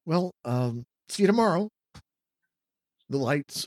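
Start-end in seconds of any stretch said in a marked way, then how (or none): 0.0-1.7 a touch of nervous hesitation. Acted. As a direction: say goodbye with slight unease. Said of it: "She nervously twists".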